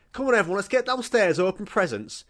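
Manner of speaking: high, loud rallying of the family; eager call. Retold or imitated. Kid calling family downstairs to open presents, eager. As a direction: hurry everyone along like an impatient kid.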